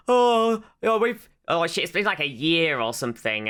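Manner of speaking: high, loud flustered yelp; mock panicked Mickey. Imitating Mickey panicking to his girlfriend. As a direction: ham up his panic at being found out. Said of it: "and Mickey's like".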